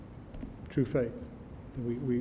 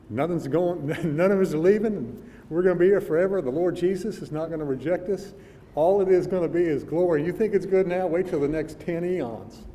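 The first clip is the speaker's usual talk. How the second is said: louder, higher, delighted cry; joyful exclaiming; 3 semitones higher, 3 dB louder than usual. Pretend. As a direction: exult like you're home forever. Joyful quote of saints in heaven.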